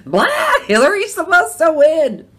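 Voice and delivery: high, loud whiny mimicry of the complaint; mock the upset daughters' whining; mocking the family. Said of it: "It's like".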